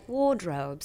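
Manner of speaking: British pronunciation of "Wardrobe"; British accent. Retold or imitated. Singer showing the glamorous British word, British accent. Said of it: "Here it's like".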